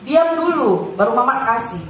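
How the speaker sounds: put-on firm, patient mother telling the child to hush first; lightly voiced mum, calm but firm. Mother to crying son with Down syndrome, mildly firm. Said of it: "mama saya akan selalu bilang begini".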